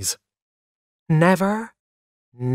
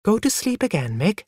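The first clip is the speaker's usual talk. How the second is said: higher-pitched, calm mother; 8 semitones higher than usual. A narrator's reading. Wife settling her woken husband, calm. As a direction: soothe him lightly, unruffled. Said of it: "she told him calmly".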